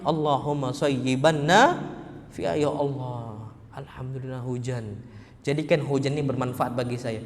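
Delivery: low, very soft, murmured supplication; hushed prayer. Acted. Believer thanking Allah for the rain, hushed prayer.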